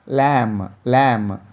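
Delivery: lamb said as lam with no b at the end; model word lamb. Shown as a demonstration. Teacher drills lamb for the children, no B. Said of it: "you have to pronounce this word as".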